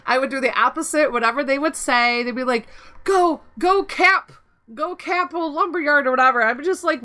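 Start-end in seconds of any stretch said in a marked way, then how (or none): 3.0-6.1 raised-pitch mock team commands; imitated ordering. Imitating teammates calling a flag capture, mock commanding.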